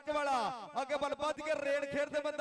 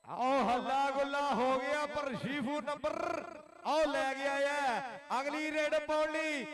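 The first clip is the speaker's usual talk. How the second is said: frantic rural sports commentary. Acted. Live kabaddi commentary.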